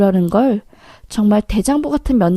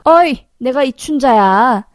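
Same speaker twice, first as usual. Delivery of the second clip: brash, higher-pitched announcement of oneself; calling out loudly; 3 semitones higher than usual. Acted. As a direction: call someone out across the room. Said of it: "큰 소리로".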